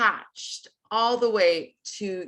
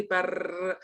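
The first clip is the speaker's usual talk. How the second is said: rolled R; 5 dB quieter than usual. Shown as a demonstration. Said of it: "try rolling the R without pitch".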